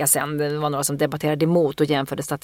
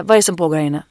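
firm, louder police demand; cop voice; 4 dB louder, faster than usual. Retold or imitated. At the door she demands of the man, in cop voice. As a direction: question him like a cold robot cop. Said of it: "jag är fan en jävla robot".

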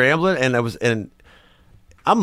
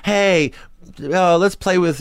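put-on high girly voice; 8 semitones higher, slower than usual. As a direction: squeal it like a little sister. Mimics sisters inviting to play.

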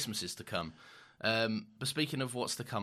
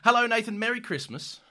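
excited; 13 semitones higher, 8 dB louder than usual. Acted. Cheerful loud greeting.

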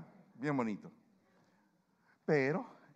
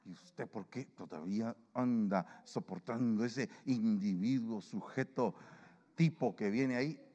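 annoyed critic; 2 semitones lower, slower than usual. Retold or imitated. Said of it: "se pone bravo con uno".

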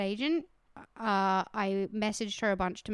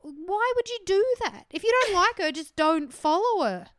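higher and louder scolding, slowing on the last words; angry lecture; 9 semitones higher, 4 dB louder than usual. Retold or imitated. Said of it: "I got so angry at him".

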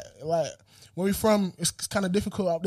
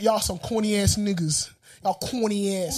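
put-on New York accent; slower than usual. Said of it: "that guy that said".

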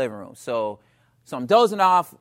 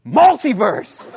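drawn-out yelled word, louder and higher; screamed; 5 semitones higher, 7 dB louder, much slower than usual. Retold or imitated. Husband screaming at wife as she kisses him, drawn out. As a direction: scream it at her, laughing. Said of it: "I just screamed at her".

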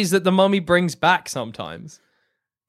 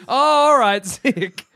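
casual mummy voice; 5 semitones higher, 4 dB louder, much slower than usual. Acted. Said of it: "the mummy's a bit clued into".

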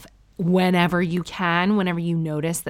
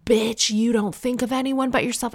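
mock outrage; 6 semitones higher than usual. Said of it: "We have to be like".

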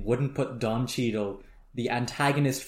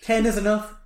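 higher-pitched prompting question; Danny; 9 semitones higher, 4 dB louder than usual. Retold or imitated. Danny prods Rusty, who says nothing, higher and questioning. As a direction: push the question up, seeking a reply.

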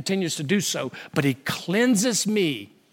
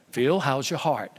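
a hint of a lower, deep old pastor; old pastor friend asking, lightly deeper; 7 semitones lower, 5 dB quieter than usual. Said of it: "He's got this deep voice".

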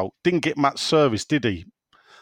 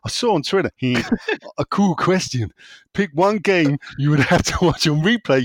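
put-on American accent; 3 semitones higher than usual. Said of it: "I can't do American".

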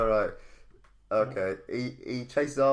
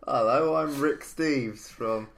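a mock American tourist-guide accent, drawn out slowly; bad American accent; slower than usual. Host greets a co-host in a bad American accent. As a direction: put on a terrible American accent as Rick Steves. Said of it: "That's a terrible accent".

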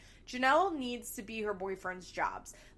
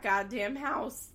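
voice crack; 4 dB louder, slower than usual. Real, not acted. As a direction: voice cracking on house. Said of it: "did you just hear my voice crack".

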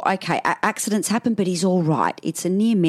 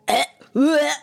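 high, short mock retch; queasy "bleh" noises; 8 semitones higher than usual. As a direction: act out being about to vomit. Retching before being sick.

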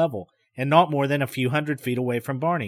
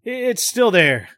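fatalistic; 7 semitones higher, 4 dB louder, slower than usual. Acted. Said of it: "with more fatalism in his tone".

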